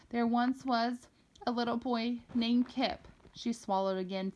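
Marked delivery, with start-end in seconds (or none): 0.1-3.1 steadier storytelling voice with an altered tone; spoken aloud. Acted. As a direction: tell it aloud like a bedtime tale, gently. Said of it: "as she spoke the words aloud".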